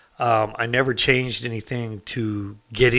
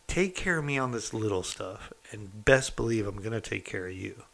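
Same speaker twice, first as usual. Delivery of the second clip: confidential offer; 5 dB quieter than usual. Retold or imitated. Lieutenant leans in, offers a deal.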